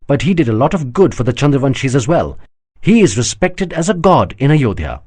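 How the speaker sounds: a lightly voiced exasperated woman; patient, pointed correction; exasperated princess. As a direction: princess setting the general straight. Anandamai answers, exasperated.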